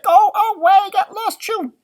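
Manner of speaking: high, loud squeaky shooing; angry leprechaun. Acted. Leprechaun trying to shoo the dog off. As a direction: push the big dog away with your voice. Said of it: "He's like".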